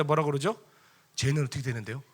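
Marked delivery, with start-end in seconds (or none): 1.2-2.0 mild question with rising end; questioning Peter. Retold or imitated. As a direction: ask about someone else, lightly. Peter's question, first mild take.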